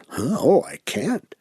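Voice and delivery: a quick flustered refusal, as if the idea is absurd; surprised huh then a jumpy can't; startled protest. Retold or imitated. Startled by suggestion to sing.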